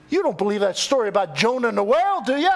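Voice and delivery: bait her with a mock-doubting tag; teasing. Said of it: "trying to mess with her".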